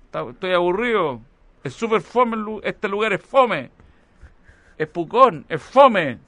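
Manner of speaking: put-on high, loud whining child; whiny bored kid.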